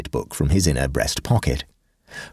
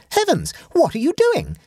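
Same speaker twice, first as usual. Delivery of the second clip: rising almost to a scream. A narrator's reading. Nephew sees his letter about to be burned, voice rising almost to a scream. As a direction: end on a high, near-screamed protest. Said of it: "Egbert's voice rose almost to a scream".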